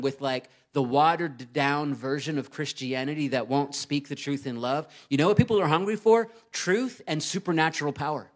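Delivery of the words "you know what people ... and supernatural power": fast, raised rhetorical question; emphatic preaching. Real, not acted. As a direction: punch the question to the crowd.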